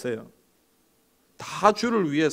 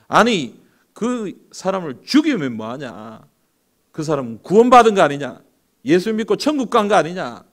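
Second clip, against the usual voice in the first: loud, scolding Satan; Satan scolding his servant in anger; angry rebuke; 3 semitones higher, 5 dB louder than usual. Acted. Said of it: "막 화를 냈습니다".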